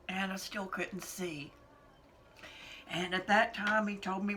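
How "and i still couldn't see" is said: slow, whispered with sorrow; grieving whisper. Real, not acted. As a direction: let it fall into a whisper. Whispered in grief.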